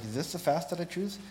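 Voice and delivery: mildly sarcastic rhetorical questions; kind of sarcastic. Acted. Preacher voices God questioning false fasting, mildly sarcastic. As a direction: read it as a pointed challenge, with a touch of sarcasm. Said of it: "he's being kind of sarcastic".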